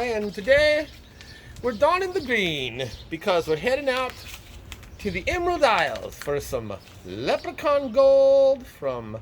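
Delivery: high, hammed-up Irish accent. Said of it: "I haven't tried to do an Irish accent in a long time".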